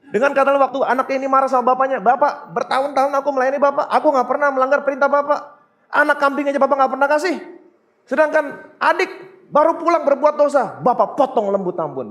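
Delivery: put-on fast, childish complaining with a laugh; mock whiny son. Preacher mocks the older son's complaint, whiny and fast. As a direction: rattle it off like a sulking kid. Son whining to his father.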